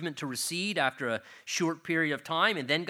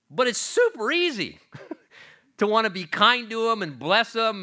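laughing fondly; 7 semitones higher, 6 dB louder than usual. Real, not acted. Laughing about grandsons.

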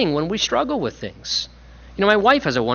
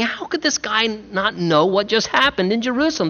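mild disbelief; 5 semitones higher than usual. Retold or imitated. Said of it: "how shocked they must have been".

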